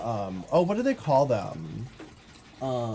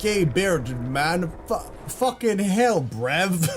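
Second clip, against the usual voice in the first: put-on British accent; 5 semitones higher, much slower than usual. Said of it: "I can't do a British accent".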